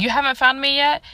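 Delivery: the uncle repeating it back as a surprised question; puzzled question. Retold or imitated. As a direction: uncle asking, a little confused. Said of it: "and he's like".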